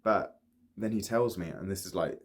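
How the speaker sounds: Ollie confessing unrequited love. Acted. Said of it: "performing the role of Ollie".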